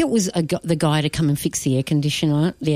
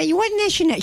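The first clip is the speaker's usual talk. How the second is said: high-pitched mimic of a migrant mum's broken English; imitating mum's accent; much faster than usual. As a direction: play the pushy mum asking questions. Mum quizzing the air-con man.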